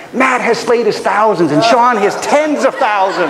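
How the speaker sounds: mock-epic taunt, drawn out at the end; slow, grand finish on the taunt; biblical trash talk. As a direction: proclaim it like a scriptural boast. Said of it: "That's biblical trash talking right there".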